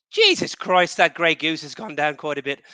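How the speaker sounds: a podcast host imitates a co-host's father in a light Welsh accent. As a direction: play the dad in a hint of a Welsh accent, spotting the missing vodka. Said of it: "that was a great Welsh accent you displayed".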